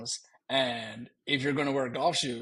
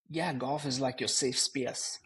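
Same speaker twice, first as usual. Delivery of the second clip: Irish accent; slower than usual. Shown as a demonstration. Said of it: "Do it again".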